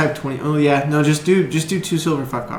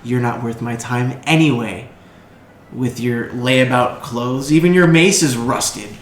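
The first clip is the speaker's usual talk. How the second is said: slow drawn-out sneer; haughty noble; slower than usual. Acted. Young noble mocking the adventurer's clothes, slow sneer. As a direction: look down on their shabby gear. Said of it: "And he looks at you and goes".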